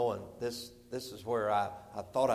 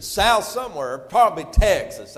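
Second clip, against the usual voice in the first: retold guess called out louder; a louder, keen guess; eager guess; 7 semitones higher, 12 dB louder than usual. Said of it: "They said".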